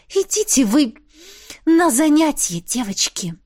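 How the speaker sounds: venomous, dropping off at the end; hissed. A narrator's reading. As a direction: spit it through a hiss. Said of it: "я прошипела". (прошипеть со злостью)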